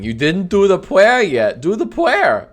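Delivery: high, whiny mock nagging; pestering viewer. Streamer imitating the viewer who kept asking, mock whiny demand. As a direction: imitate an insistent pest, pitch climbing. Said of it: "the person who kept asking".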